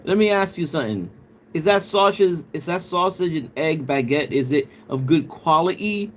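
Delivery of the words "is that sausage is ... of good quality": lightly put-on British accent, dropped t's; mock British accent. Streamer teasing a UK viewer about his breakfast, mock British accent. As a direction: tease with a playful British accent. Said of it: "that accent".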